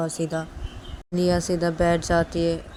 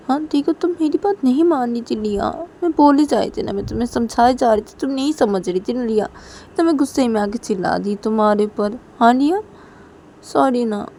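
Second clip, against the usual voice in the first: coaxing mother; 5 semitones higher than usual. Acted. Mother coaxing upset daughter.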